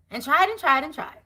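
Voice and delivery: laughing through it. Real, not acted.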